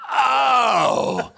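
high, drawn-out mock "oh"; mother's meaningful oh. Mother reacting, retold with escalation.

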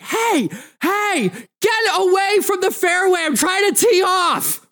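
high-pitched, exasperated golfer; frustrated yelling. Acted. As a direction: yell across the fairway in irritation. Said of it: "really frustrated and just starts yelling".

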